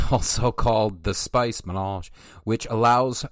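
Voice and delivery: reading aloud like an encyclopedia entry; steady, measured reading voice; methodical reading voice. Shown as a demonstration. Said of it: "in my melodical, methodical voice".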